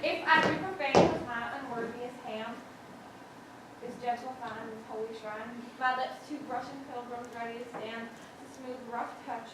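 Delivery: soft, low love verse; tender wooing. Acted. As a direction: recite it hushed, just for your beloved. Recites Romeo's verse while wooing.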